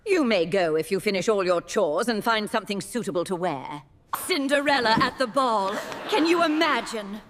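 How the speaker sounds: scornful, sneering put-down; mocking stepmother. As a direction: sneer down at her. Stepmother mocks Cinderella.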